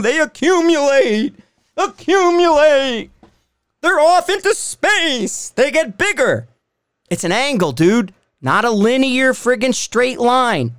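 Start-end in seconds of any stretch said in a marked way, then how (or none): 0.0-6.5 emphatic rant. Real, not acted. Explaining angrily to critics.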